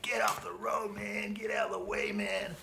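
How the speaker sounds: high, shouted yell from a car; high mock shout at a cyclist; yelling hoons. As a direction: imitate angry drivers yelling him off the road. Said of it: "They were just like".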